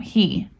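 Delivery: he said with a long E, saying its name; long vowel he. Shown as a demonstration. Teacher showing the long vowel in he. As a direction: draw out the E in he. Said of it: "saying its name".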